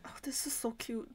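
a real soft whisper of delight. Real, not acted. Fan watching a cute scene, whispering in delight. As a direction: breathe it out, barely voiced.

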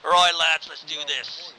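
rallying call. Real, not acted. Leader rallying squad to move.

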